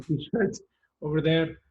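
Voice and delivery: ordinary talk, nothing marked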